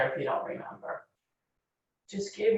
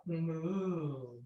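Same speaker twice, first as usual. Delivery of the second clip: soft moo; 8 dB quieter than usual. Shown as a demonstration. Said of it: "And another cow".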